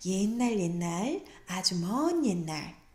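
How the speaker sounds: slow, gentle, tender storybook reading voice. Showing how to read a fairy tale to a young child, warm, gentle storytelling tone. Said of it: "내가 아주 다정하게 구연동을 읽어준다는 마음으로".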